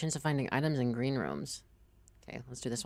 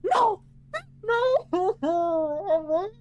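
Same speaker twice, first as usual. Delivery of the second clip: very high, loud scream of no, into a laugh; despairing scream; 6 dB louder than usual. Real, not acted. Streamer losing his run, screaming then laughing. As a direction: shriek in defeat then crack up. Character dies in game.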